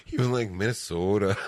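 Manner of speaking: laughing mock Minnesota accent; imitated Minnesota accent. Shown as a demonstration. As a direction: mimic the Canadian-sounding Minnesota vowels through a laugh. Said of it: "sounds like the stereotypical Canadian accent".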